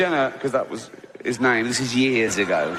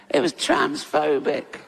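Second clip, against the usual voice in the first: mocking whine; slower than usual. Mocking Twitter complainers.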